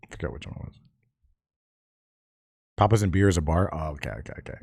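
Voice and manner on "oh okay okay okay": ordinary talk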